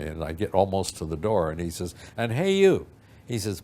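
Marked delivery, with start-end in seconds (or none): 2.2-2.9 high, loud retold hail; calling out. Manager to kid almost at the door, calling out. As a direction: imitate a boss hollering someone back. Boss calls him back from door.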